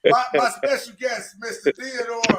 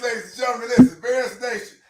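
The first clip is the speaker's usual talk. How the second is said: put-on old radio announcer; 3 semitones higher, 5 dB louder than usual. Mock sponsor read, hype intro.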